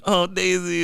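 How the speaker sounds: high-pitched coo to a pet; dog-talk voice. Shown as a demonstration. Owner showing his Daisy greeting, high dog-talk voice. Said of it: "do the noise properly".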